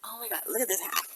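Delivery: whisper. Real, not acted. Showing off her hat.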